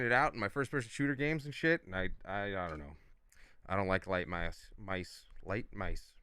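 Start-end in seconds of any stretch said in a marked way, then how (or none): 1.8-6.1 talking with a numb mouth; words slurred by a numb mouth. Real, not acted. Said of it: "My mouth is numb".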